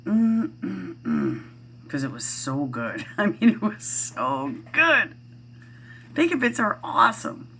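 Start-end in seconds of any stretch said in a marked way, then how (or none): 0.0-1.4 mock yummy hum; 1 savoring mm. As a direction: hum with delight as if tasting bacon bits. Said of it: "and I go".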